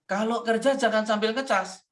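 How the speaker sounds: retold scolding with a measured edge; scolding intonation. Husband tells wife not to work while charging, mildly scolding. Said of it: "intonasinya begitu".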